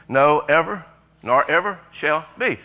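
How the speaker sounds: loud call-out of no ever; shouted together. Shown as a demonstration. Preacher leading the church to shout it. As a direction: shout it out with the congregation. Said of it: "here's where everybody should shout".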